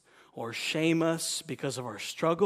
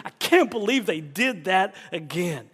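higher and much louder mock exasperation; exasperated rant; 7 semitones higher, 12 dB louder than usual. Preacher mocking an exasperated God figure. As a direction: throw up your hands in mock disbelief. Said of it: "God doesn't throw his hands up ... and say".

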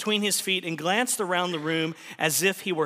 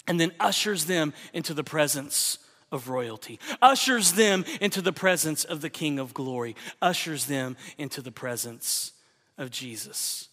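fading preacher's refrain. Acted. Preacher to congregation, refrain fading away. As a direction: let the refrain fade to a hush.

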